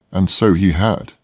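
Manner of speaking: plain reading voice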